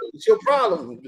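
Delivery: retold stern demand. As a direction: repeat it low, without raising the volume. Retold confrontation, question repeated lower.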